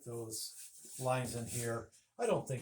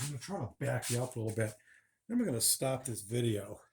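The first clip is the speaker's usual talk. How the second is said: fast, wired caffeine chatter; too much caffeine. Real, not acted. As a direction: rush the words, jittery from coffee. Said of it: "I had several cups of coffee already".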